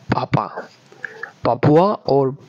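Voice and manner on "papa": whispered. Shown as a demonstration. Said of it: "Some Georgians say".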